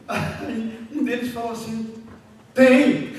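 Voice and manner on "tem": sudden loud mimicked blurt; abrupt shouted reply. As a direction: burst out with one very loud word. Acts out youth's abrupt reply.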